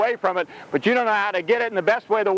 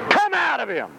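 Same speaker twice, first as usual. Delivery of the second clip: stern, higher-pitched order; firm command, falling at the end; 4 semitones higher than usual. Acted. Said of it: "said Jesus sternly".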